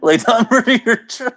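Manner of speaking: distorted demon voice; demonic voice. Acted. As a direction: growl it like a demon. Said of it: "the demonic voice".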